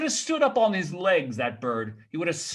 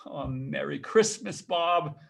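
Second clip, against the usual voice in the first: earnest greeting; slower than usual. Acted. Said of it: "with an earnestness that could not be mistaken".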